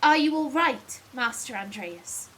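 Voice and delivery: a light posh voice for a concerned assistant; posh accent. Acted. Assistant checking on Master Andreas, posh accent. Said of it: "give him a relatively posh voice".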